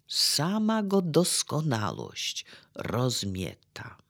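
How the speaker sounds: deklamacja z szeptanymi frazami; recytacja wiersza. Acted. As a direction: czytaj wiersz półgłosem, uroczyście. Recites poem quotation. (wykładowca cytuje Norwida, cicha deklamacja)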